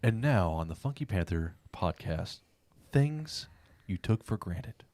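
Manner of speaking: slow, drawn-out segment announcer. Pretend. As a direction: announce the segment title slowly. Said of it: "You, you do the same voice every time".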